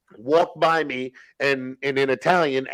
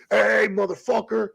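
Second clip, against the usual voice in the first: raised pitch, mock hostile demand; retold hostile order; 5 semitones higher than usual. Inmates confront him at the pull-up bar, hostile. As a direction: voice an irate inmate ordering someone around.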